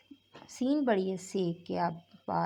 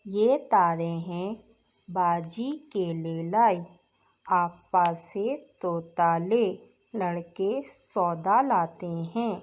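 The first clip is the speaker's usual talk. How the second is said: classroom reading drill. Acted. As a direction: read each word out for the children to repeat. Teacher drills Urdu reading aloud.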